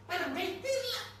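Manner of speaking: pompous declaiming quote. Retold or imitated. Mocking the strategist's doctrine to the audience, loud pompous proclamation. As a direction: thunder the imperial doctrine like an orator. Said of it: "Quel Zelensky semplifica così".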